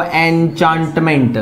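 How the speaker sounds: एन्चांटमेंट drawn out slowly, each syllable clear; teacher drawing out एन्चांटमेंट; slow model word. Shown as a demonstration. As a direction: say एन्चांटमेंट slowly for the class to repeat. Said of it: "पहला शब्द वापस repeat कर रहा हूं".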